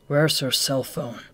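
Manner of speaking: slow, flat demand. Acted. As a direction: ask curtly. Akutagawa terse.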